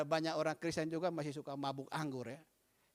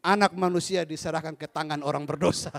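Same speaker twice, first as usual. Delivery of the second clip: louder, laughing delivery of the line; can't hold back the laugh; laughing through the quote; 3 semitones lower, 8 dB louder than usual. Acted. Drunk quoting scripture to the pastor, laughing loudly.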